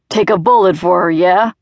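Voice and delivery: quick derisive challenge. A narrator's reading. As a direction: taunt him with the question. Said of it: "Dad asked derisively".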